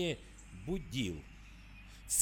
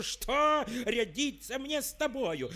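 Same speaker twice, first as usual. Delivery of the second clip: shouting tsar; 7 semitones higher than usual. A narrator's reading. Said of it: "закричал он".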